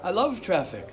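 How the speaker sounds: lightly imitated English accent. Rabbi retelling his visitor's cheerful reply, light English accent. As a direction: quote him with a hint of an English accent. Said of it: "in his English accent".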